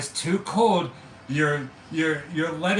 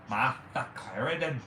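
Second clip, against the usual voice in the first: put-on Boston accent; 5 semitones lower, 4 dB quieter than usual. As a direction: lower Boston voice. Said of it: "Boston accent".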